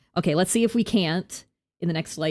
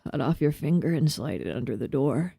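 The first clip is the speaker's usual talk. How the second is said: freaky voice; 4 semitones lower than usual. Acted. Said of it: "I like doing freaky voices".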